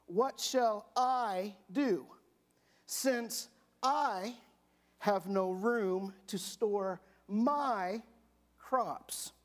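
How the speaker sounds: drawing out the rich man's worry over his crops; rich man thinking aloud. Acted. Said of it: "And he thought".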